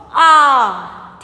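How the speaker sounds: one long, sustained आ; letter alone. Shown as a demonstration. Teacher showing pupils how to say it, held आ. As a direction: hold the vowel आ by itself, firmly. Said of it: "इस तरह से बोलना".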